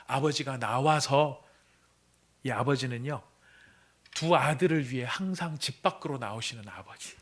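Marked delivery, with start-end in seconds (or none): 0.1-1.4 나와서 drawn out slowly and stressed; slow emphasis. Shown as a demonstration. Preacher stressing 나와서 for the congregation, slowly. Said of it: "말을 강조하고 있습니다".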